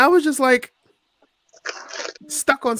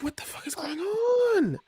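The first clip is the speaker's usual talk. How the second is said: stunned whisper. Retold or imitated. Starstruck while meeting Tommy Dreamer.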